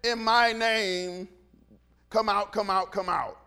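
slow, drawn-out "in my name", then repeated commands; mock ceremonial deliverance command; showy invocation. Shown as a demonstration. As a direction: intone "in my name" grandly. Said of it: "he never said".

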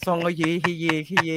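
ซองเฮเย with a falling pitch pressed down; ซองเฮเย said with heavy falling emphasis; stressed corrected reading. Shown as a demonstration. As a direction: drop the pitch hard on ซองเฮเย. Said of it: "ลงเสียง".

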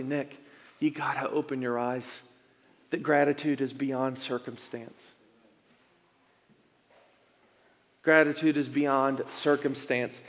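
soft, earnest encouragement; gentle voice of God. Retold or imitated. God urging Nick to open his eyes, soft and sincere. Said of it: "trying to get to my heart and say".

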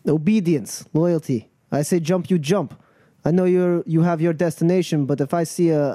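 lightly voiced crew boss setting terms; a touch of firm command; commanding. Crew leader tells travellers her price for helping, commanding.

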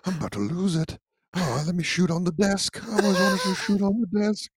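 lightly voiced gentle cartoon bear; Winnie the Pooh voice. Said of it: "I don't like Winnie".

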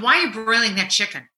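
quick, clipped retold snip at husband; a wife's quick dig about the chicken; snippy question. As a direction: fire it off fast and curt. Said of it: "Just like that".

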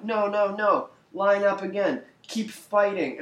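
high, loud mock battlefield orders; mock screaming. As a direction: imitate a commander screaming at his fleeing troops. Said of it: "running around screaming at him".

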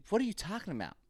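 high, exasperated protest; retold exasperation. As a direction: throw up your hands at your wife, pitched high. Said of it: "I was like".

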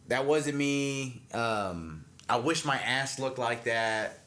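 slow, offhand denial; Cash Me Outside girl. Retold or imitated. Teen answering TMZ about the fight video, in a slow, offhand denial. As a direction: lazily deny it, unbothered. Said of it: "She's like".

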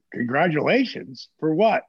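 rising, confused for what; genuinely baffled asking back; puzzled question. Retold or imitated. Answering Jake's call, puzzled and rising.

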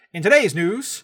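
put-on old newsreel anchor voice; mid-Atlantic accent. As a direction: read it like a forties radio announcer in mid-Atlantic accent. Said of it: "mid-Atlantic accent".

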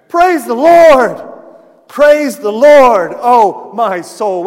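loud, slow declamation building high; exultant preaching. Real, not acted. Preacher quoting the old hymn on sin nailed away, exultant. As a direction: build to a drawn-out, ringing cry of praise.

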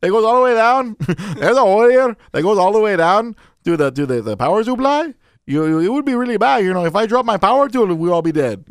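put-on light Mexican-accented contractor. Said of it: "Mexican contractors are trying to tell".

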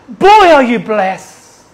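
loud, drawn-out realisation; emphatic exclamation. Shown as a demonstration. Preacher tells believer how blessed they are, emphatic and loud. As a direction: hit it hard and stretch it. Exclaims, then repeats it softer.

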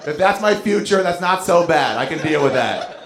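hoger en luider, opgewekt zelfvertrouwen; mock confident. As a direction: geforceerd dapper, hoger. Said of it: "And I was like".

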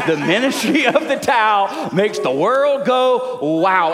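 played-up Southern drawl with laughter; Southern accent. Shown as a demonstration. Pastor showing off his teased rhyme, hammed-up Southern accent. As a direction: lean into the Southern vowels so it rhymes. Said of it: "your little Southern accent makes it".

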